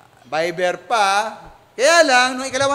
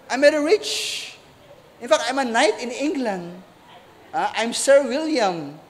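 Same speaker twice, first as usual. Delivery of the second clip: put-on British accent. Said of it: "may British accent".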